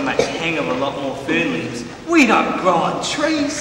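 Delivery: emphatic outburst. Acted. Soldier declares with feeling.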